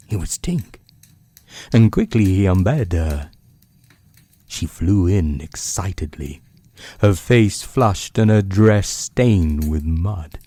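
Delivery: hushed, unhurried bedtime reading; story narration. A narrator's reading. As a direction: read it like a book by the bedside.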